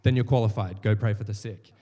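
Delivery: loud, declarative send-off; booming commission. Retold or imitated. Preacher loudly sending the volunteer to pray for the sick, booming. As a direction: announce it like a rallying order.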